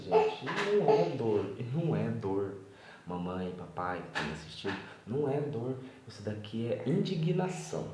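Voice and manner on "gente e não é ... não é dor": emphatic loud insisting. Real, not acted. Father insists to the audience, loudly. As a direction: raise the voice, insisting it is not pain.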